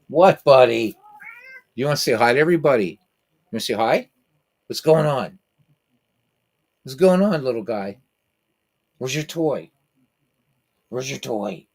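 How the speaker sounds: high, sing-song talk to a cat; pet voice. Real, not acted. Talking to his excited cat.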